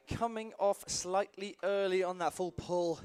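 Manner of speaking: talking out of breath; breathless commentary, out of breath. Real, not acted. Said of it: "Sorry, I'm a little bit out of breath".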